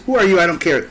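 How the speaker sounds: dismissive sneer. Retold or imitated. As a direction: toss it off with contempt.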